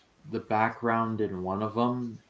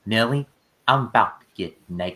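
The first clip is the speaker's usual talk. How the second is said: put-on Southern accent; 3 dB louder than usual. Quoting a film to prove the actor's accent is great, Southern accent. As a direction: imitate a movie Southern accent. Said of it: "Southern accent is immaculate".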